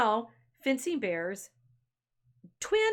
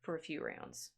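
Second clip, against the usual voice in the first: mildly taken aback; 4 semitones higher, 4 dB louder than usual. Acted. Fencing Bear bows out after being rebuked, mildly taken aback. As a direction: back off politely, lightly acted.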